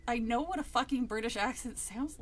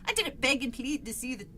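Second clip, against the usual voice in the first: failed British accent; 5 dB louder than usual. Shown as a demonstration. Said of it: "that's worse".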